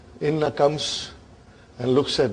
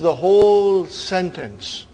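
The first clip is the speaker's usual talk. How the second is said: "whole" drawn out and lifted; long, weighty "whole" before "sentence"; emphatic stress; 4 semitones higher, 5 dB louder, slower than usual. Shown as a demonstration. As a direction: lean hard and slowly on "whole". Teacher repeats the point with stress.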